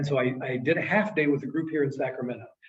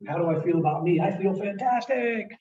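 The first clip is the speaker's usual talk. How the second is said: elated bragging; 2 semitones higher than usual. Acted. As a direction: brag about your best day ever. Acting out a boasting good day.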